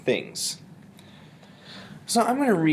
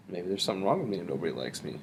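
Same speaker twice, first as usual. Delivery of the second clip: quick, low, softer musing; thinking voice; 5 semitones lower, 6 dB quieter, faster than usual. Shown as a demonstration. Teacher answering the poem's question to self, thinking voice. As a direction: mumble it quickly as a private thought. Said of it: "use my thinking voice to generate questions".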